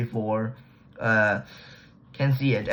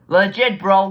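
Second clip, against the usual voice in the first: exclaiming disbelief; 6 semitones higher, 7 dB louder, slower than usual. Real, not acted. Exclaims after repeated legit.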